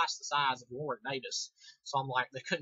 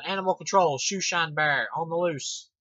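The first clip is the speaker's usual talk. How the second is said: mock news alert; 2 semitones higher, 6 dB louder than usual. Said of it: "I could just see that on the news now".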